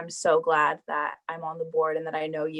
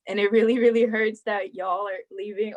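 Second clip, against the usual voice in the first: tearful; 2 semitones higher, 3 dB louder than usual. Real, not acted. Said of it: "now I'm actually crying".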